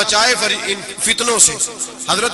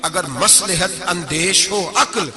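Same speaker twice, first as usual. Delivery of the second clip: poem recitation; slower than usual. Acted. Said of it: "اور کہنے لگے".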